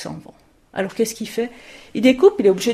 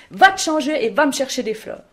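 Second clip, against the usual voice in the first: louder, sharp order to change; loud scolding order; 4 semitones higher, 4 dB louder than usual. Acted. Mother scolding the soaked girl, loud and sharp. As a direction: bark the command at the child.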